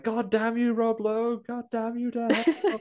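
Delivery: high, loud fist-shaking curse; damn them to hell as they flee; sputtering foiled villain. Retold or imitated. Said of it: "he literally shakes his fist".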